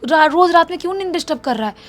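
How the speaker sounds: acted irritated mother; scolding mom. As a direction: scold a child who keeps disturbing your sleep. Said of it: "mummy इसको डांट देती है".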